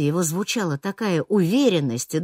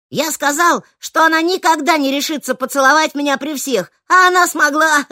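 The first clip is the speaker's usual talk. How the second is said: higher, louder boastful proclamation; loud announcement; 11 semitones higher, 8 dB louder than usual. A narrator's reading. Нером объявляет всему кафе, loud boastful. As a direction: announce it to the whole cafe. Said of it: "громко заявил Нером".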